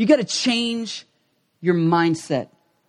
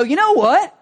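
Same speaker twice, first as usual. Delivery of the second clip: eager self-talk; 4 semitones higher than usual. Retold or imitated. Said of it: "you get in there and you go".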